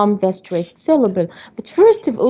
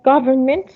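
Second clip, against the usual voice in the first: GOVernment, first syllable stressed. Shown as a demonstration. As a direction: lean on the GOV of "government". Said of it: "stress on the first syllable".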